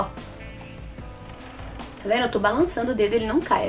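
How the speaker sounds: ordinary delivery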